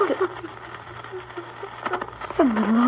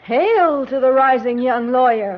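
mock-grand hailing; sneering ceremonial toast; sarcastic acclaim. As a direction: proclaim it to needle your husband. Wife mocks husband's career in quarrel.

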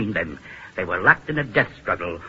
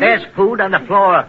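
louder, higher, emphatic announcement; raised, commanding voice; insistent repeat; 5 semitones higher, 5 dB louder than usual. Acted. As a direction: drive it home to someone dazed.

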